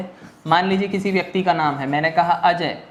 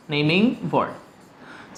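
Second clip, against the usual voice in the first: drawn out; 3 semitones lower, 3 dB quieter, much slower than usual. Shown as a demonstration. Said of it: "क्या कहला रहा है?".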